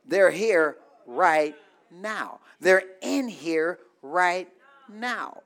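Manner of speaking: "They're here right now" said slowly, each word weighed; slow it down and press it home; slow emphatic repeat. Shown as a demonstration. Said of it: "Let me say it again".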